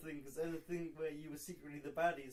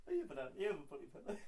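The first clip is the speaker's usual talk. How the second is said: laughing mock tease; much faster than usual. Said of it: "I can still go".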